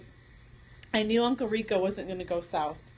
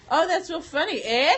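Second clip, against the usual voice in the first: Michigan eh; 5 semitones higher, 4 dB louder than usual. Retold or imitated. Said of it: "I said it just like that".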